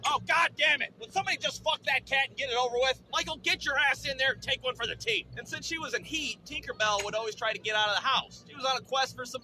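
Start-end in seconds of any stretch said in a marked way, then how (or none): 0.1-5.2 loud, raised-pitch annoyance; exasperated outburst. Acted. Fed-up listener to yowling cat, exasperated outburst. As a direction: burst out, fed up with the noise.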